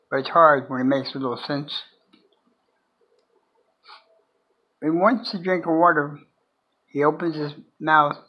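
measured recital with long pauses between lines; poem reading. Acted. Sharing own poem The Drifter with viewers, poem reading.

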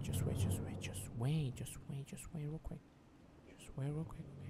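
soft whispered pleading. Real, not acted. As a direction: whisper so the monster can't hear. Hiding from the monster.

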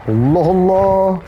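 high, slow, stretched exclamation; real fright, slowed and high; drawn-out dismay. Real, not acted. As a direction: groan it out in disbelief. Monster still chasing.

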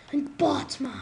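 breathy dramatic whisper of a hero name; whispered Batman. Pretend. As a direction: hush it like a secret. Hushed dramatic Batman line.

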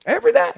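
jumps way up in pitch on every day; emphatic repeat. Acted. Preacher stressing to the church how daily it was, high pop.

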